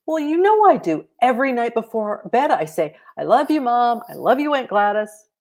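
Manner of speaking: a hint of an excited kid; young girl Holly. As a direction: read Holly as a bright little girl. Child character Holly.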